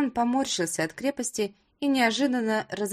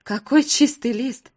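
louder, higher rising fury; furious outburst; 4 semitones higher, 6 dB louder than usual. Acted. Wife furiously listing Roma's betrayals, loud and high. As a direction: pour out every grievance.

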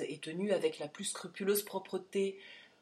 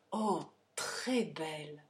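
slow, low-key admiration; understated, drawn-out awe; admiring exclamation; 3 semitones lower, 4 dB quieter, slower than usual. A narrator's reading. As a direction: savour the praise slowly. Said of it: "s'écria Harry".

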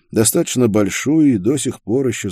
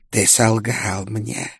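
slow, sinister ghostly whisper; whispered singsong; slower than usual. A narrator's reading. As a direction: breathe it like a hungry spirit. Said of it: "пришёл из мрака зловещий шёпот". (зловещий шёпот)

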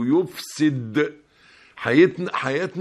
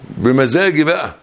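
arrogant retort; 7 dB louder than usual. Retold or imitated. Arrogant reply voiced, Iblis-like.

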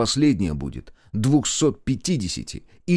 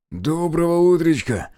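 raised-pitch, mildly rasping hello; hoarse greeting; 5 semitones higher than usual. A narrator's reading. Lieutenant arriving in the trench after running, mildly hoarse. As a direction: croak out a greeting after a run. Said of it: "прохрипел лейтенант, выровняв дыхание".

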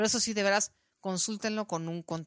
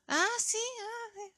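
dismissive reply; 14 semitones higher, 3 dB quieter, slower than usual. Retold or imitated. The lady's cold brush-off reply.

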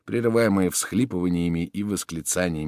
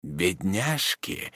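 softer, very slow; tender murmur; whispered pity; 6 dB quieter, much slower than usual. Acted. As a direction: hush to the orphans. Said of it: "шепнул Роден сиротам".

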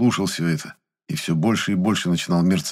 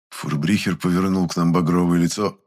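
ordinary delivery

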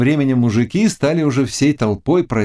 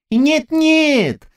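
put-on high, joyful old man's cry. A narrator's reading. Old man cries out with joy to Zagloba. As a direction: cry out in relief. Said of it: "радостно закричал старик".

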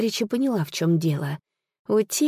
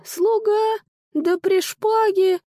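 high, sneering mock surprise; 13 semitones higher, 4 dB louder, slower than usual. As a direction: jeer at the sword-bearing servant. Sorcerer mocks the servant claim. (насмешливо, высоко)

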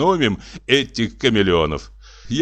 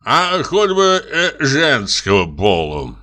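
gloomy; 5 semitones higher, slower than usual. Acted. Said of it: "угрюмо глядя на бутылку".

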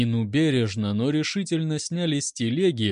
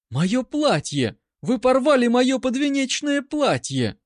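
hammed-up shriek; 10 semitones higher, 4 dB louder than usual. A narrator's reading. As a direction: wail over the torn wedding dress. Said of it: "Нина вскрикнула". (высокий громкий театральный вскрик)

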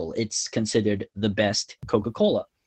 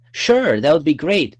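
higher, louder quote of an eager self; mildly excited retold agreement; retold eager yes; 6 semitones higher, 7 dB louder than usual. Student quoting their own eager reply, mildly excited. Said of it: "And then I said".

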